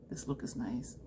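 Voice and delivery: soft breathy whispered aside; hushed admiring whisper. Real, not acted. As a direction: breathe it to yourself. Aside while applying shadow.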